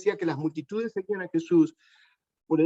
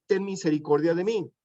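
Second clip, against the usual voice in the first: calling out; 3 semitones higher than usual. Acted. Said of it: "comenzó a dar voces".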